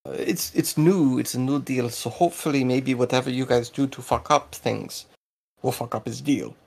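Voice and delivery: lightly voiced Russo-German character; accented informant. Local telling smugglers about a deal, in Russo-German accent.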